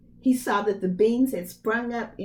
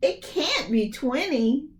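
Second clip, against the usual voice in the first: laughing mother; 5 semitones higher than usual. Acted.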